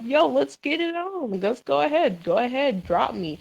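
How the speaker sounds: acted fight challenge. Re-enacting being ready for a fight, cocky challenge. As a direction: egg on a rival to fight, retold.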